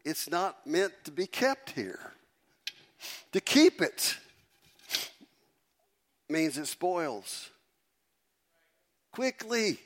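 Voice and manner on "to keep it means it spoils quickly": high, loud, echoing call; echo effect. Shown as a demonstration. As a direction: ring out like an echo in a hall. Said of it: "How you like that echo?".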